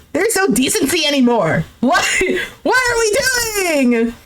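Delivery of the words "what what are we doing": high, drawn-out wail; exasperated high whine; appalled. Real, not acted. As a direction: wail the question in disbelief. Appalled at the flirting.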